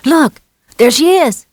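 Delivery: put-on high, loud boy's cry; excited child calling out; excited shout. A narrator's reading. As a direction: point and shout it out. Boy spots the horse.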